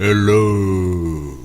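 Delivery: low, drawn-out overlord hello; lightly voiced overlord greeting; booming arrogant alien overlord. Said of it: "Is that the overlord voice?".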